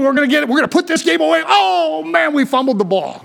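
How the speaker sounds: fast and high, then deflating at the fumble; hammed-up player losing the ball; player's hope turning to dismay. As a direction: rush the excitement then sag on oh man. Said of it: "you move".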